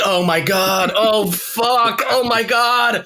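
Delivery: high, building cries of dismay; rising from dismay to an overwrought shout; mock anguished wail. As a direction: wail it as a hammed-up devastated viewer. Acting out viewer's devastated reaction.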